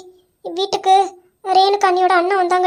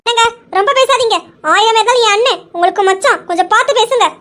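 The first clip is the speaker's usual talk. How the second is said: louder, firm warning to husband; angry warning; 2 semitones higher, 4 dB louder than usual. Acted. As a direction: warn him to mind his words. Wife warns husband. (உரத்த எச்சரிக்கை)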